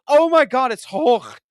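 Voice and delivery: stunned excitement. Retold or imitated. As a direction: gasp it out like a thrilled fan. Retells seeing the cameo.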